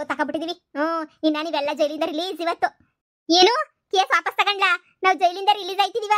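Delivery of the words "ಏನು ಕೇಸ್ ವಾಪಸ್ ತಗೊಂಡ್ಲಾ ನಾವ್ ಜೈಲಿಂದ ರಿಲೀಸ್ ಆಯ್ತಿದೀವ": surprised. Acted. Shocked at release news.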